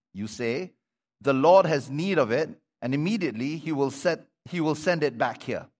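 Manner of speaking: measured, projected Bible reading; scripture reading. Acted. Preacher reading the colt story to the congregation, projected reading voice. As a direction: read the passage out clearly to the congregation.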